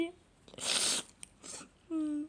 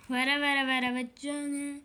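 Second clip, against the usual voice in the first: mock dying lament; slower than usual. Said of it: "beni hastaneye kaldırana kadar".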